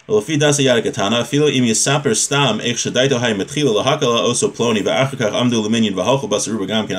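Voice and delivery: quick-fire chavruta reading of the Hebrew; rapid text reading. Acted. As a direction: rattle off the source like a study partner. Reads Hebrew source text rapidly.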